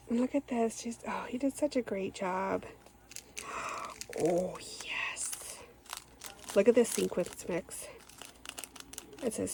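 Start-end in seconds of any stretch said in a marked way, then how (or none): 4.2-5.6 sharp gasp, then a hushed oh yes; gasp and whisper. Real, not acted. Crafter unboxing sequin mix, gasping then whispering. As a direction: catch your breath in delight.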